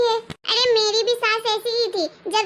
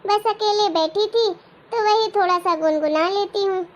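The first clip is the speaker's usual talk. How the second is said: lightly voiced frail grandmother, a bit lower; old grandmother; 3 semitones lower than usual. Grandmother brushing off her son's praise, lightly voiced and weary.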